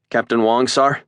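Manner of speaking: put-on a young cadet reporting smartly; young cadet addressing his captain, crisp; eager young cadet. A narrator's reading. Cadet's voice in the story.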